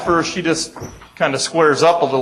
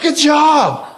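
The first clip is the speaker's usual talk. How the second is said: mock praise; 12 semitones higher than usual. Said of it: "I'm like".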